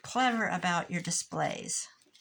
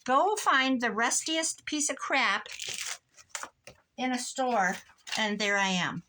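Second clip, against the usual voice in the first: exasperated retort; 5 semitones higher, 4 dB louder than usual. Retold or imitated. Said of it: "I'm like".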